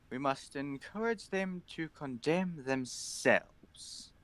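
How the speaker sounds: a hint of a solemn inquisitor; slow, grave pronouncement of strategy; stern commander.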